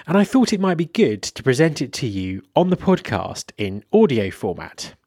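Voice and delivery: scripted intro with lively, lifted phrase openings; podcast host intro. Acted. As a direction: present the episode to your listeners in measured phrases.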